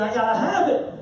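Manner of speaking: a hint of a toddler begging; lightly voiced greedy child; whiny two-year-old. Preacher playing a toddler craving a new phone. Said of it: "like a little two-year-old saying".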